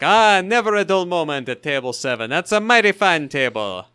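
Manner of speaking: put-on a touch of a fond, reflective old waiter; wistful, nostalgic waiter. Imitating the waiter looking back on table seven, lightly nostalgic. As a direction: savour it like a happy memory, lightly voiced. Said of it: "happy and, and nostalgic and reflective".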